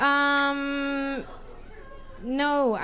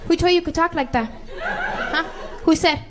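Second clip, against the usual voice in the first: put-on louder, fired-up rant at a mouthy kid; comic scolding a kid who talks back, loudly; 3 semitones higher, 4 dB louder than usual. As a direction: scold a stranger's kid with full force. Ranting about spanking kids.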